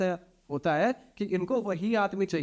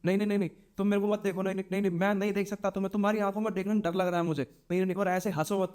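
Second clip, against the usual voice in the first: fast, frantic begging; a boy panicking in mock terror; terrified pleading; 3 semitones higher, much faster than usual. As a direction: beg the spirit to go away. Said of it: "वो डर जाता है".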